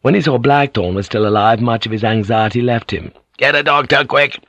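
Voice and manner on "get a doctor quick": sharp command, pitched up a little; urgent order. A narrator's reading. Yabu sends for a doctor on finding Blackthorn alive, urgent order. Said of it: "he ordered".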